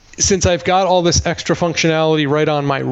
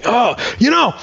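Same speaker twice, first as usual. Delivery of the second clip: barber's sheepish admission; 9 semitones higher than usual. Retold or imitated. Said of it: "I said".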